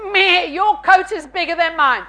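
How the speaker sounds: envious sheep complaint; bleat, then whine like a jealous sheep; lightly voiced grumbling sheep. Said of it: "Sheep bleat".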